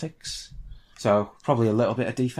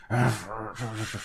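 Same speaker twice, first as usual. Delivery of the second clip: muffled gagged struggling; 6 dB quieter than usual. Acted. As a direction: grunt and strain as if gagged. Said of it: "but the gag's still in his mouth".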